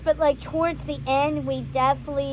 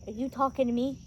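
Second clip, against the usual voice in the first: quoted movie line; 2 semitones lower, 6 dB quieter, faster than usual. Acted. Reviewer acting Pumbaa facing the hyenas, restrained first question. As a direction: ask it quietly, holding back before the blow-up.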